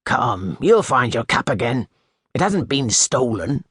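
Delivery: put-on the master calms the new boy about his cap; gentler tone. A narrator's reading. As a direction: ease the frightened boy's worry. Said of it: "in a gentler tone".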